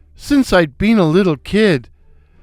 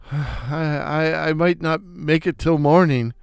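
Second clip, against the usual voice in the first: faint, halting, softer words; choked out; 5 dB quieter than usual. Acted. Pretending to be dying, he chokes out words softly. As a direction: stammer it out weakly, soft. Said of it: "I managed to choke out".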